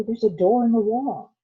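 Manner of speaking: put-on high, loud boyish call; excited cry. A narrator's reading. Charlie calling to Grandpa, excited and loud. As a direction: point it out eagerly. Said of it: "cried Charlie".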